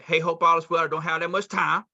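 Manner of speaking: brisk, urgent phone opener; urgency. Shown as a demonstration. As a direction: say it like you're short on time. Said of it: "hear the urgency in my voice".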